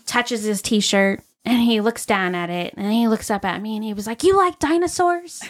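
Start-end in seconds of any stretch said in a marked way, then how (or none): 4.2-5.4 lightly voiced excited little boy, higher; a hint of an eager kid asking; mock eager child question. Boy's excited question retold.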